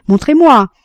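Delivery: a pleading echo, hammed up; feigned despair. A narrator's reading. Jean begs her to show him again, loud mock plea. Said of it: "disait-il".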